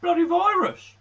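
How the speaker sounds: high-pitched, badly faked Brummie; terrible Birmingham accent. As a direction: put on a hammed-up Birmingham accent. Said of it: "that was a terrible Birmingham accent".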